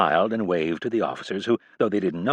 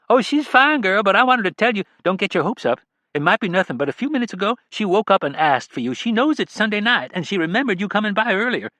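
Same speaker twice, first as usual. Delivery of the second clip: much higher, kindly caregiver voice; caring nurse; 11 semitones higher, 4 dB louder than usual. A narrator's reading. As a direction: gently warn the daughter not to hope too much. Nurse Janine voiced by narrator.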